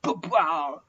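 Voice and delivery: slow, scornful rebuke; Moses angry. Acted. Moses scolding the rebellious Israelites in anger. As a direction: drag out the insult to the stubborn people. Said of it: "Dan dia marah".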